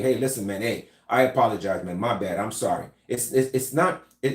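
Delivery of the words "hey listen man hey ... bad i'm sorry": non-threatening apology. Shown as a demonstration. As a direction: back down gently, hands up. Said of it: "your mind will tell you".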